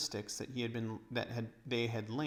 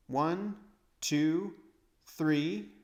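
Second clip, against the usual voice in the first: counting aloud; 6 semitones higher, 6 dB louder, much slower than usual. Acted. Edmund counting steps.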